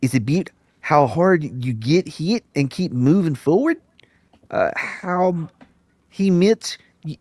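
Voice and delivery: Rocky speech in a mock Kiwi accent, slow. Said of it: "I'll do it in the Kiwi then".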